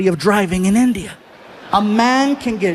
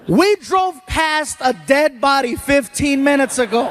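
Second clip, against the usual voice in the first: incredulous retort; 5 semitones higher than usual. Retold or imitated.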